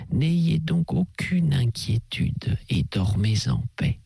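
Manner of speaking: hushed, kindly priest's voice; calm his nerves gently as the abbé; a hint of a soothing priest; reassuring priest.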